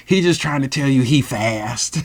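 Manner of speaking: imitated light, dismissive laughter; laughing it off. She brushes off the boy's bragging, imitated laughing. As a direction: laugh it off round the words. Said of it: "laughs it off".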